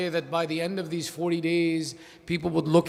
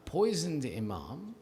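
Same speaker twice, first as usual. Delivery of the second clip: hushed narration; 4 semitones lower, 9 dB quieter than usual. Acted. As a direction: draw the listeners in quietly. Quiet opening of a mourning narration.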